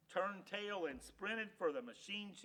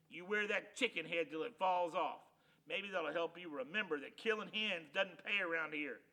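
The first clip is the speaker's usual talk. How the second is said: louder, stern punishing voice; stern lecture; 6 dB louder than usual. Acted. Loper punishing Hank with the chicken head, stern. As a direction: lay down the punishment.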